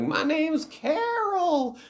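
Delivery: slow, very high creature wail; ghostly skeleton woman. Retold or imitated. Skeleton woman reveals her name, slow high mock wail. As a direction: stretch it out in a hammed-up ghoul screech. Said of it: "she's a ghostly skeleton creature".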